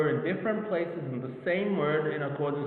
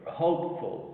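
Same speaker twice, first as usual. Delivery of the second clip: "Hopeful" with HOPE clearer, falling on "ful"; stress on first syllable. Shown as a demonstration. Teacher showing which sound is heard clearer, "Hopeful" stressed on HOPE. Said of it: "it's heard clearer".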